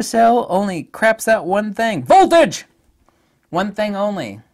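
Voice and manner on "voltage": loud high burst of excitement; excited shout. Real, not acted. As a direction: blurt it out with glee. Excited exclamation.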